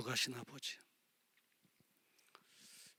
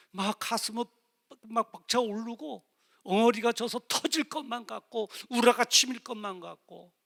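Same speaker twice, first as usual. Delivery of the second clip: mounting distress; 6 semitones higher, 11 dB louder than usual. Retold or imitated. Recalling overwhelming distress.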